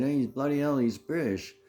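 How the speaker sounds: high, exaggerated British exclamation; mock British accent. Officials exclaiming about him, in a mock British accent. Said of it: "They said".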